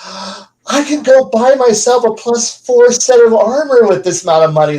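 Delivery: mock a player thrilled by loot; greedy player. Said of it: "they'll be like".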